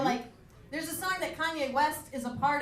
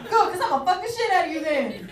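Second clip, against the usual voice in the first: mock suitor; 5 semitones higher, 9 dB louder than usual. Imagined suitor replies.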